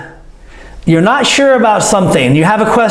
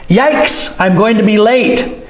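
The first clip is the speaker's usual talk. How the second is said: mild yikes; 2 semitones higher than usual. Shown as a demonstration. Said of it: "For fear of concern".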